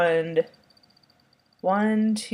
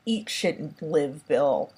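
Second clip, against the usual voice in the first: a hint of deadpan, slow and softer; lightly deadpan, slow and soft; straight-faced comeback; 3 semitones lower, 3 dB quieter, slower than usual. Ricky answering Bill's insult, mild deadpan calm. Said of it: "looks at him straight-faced".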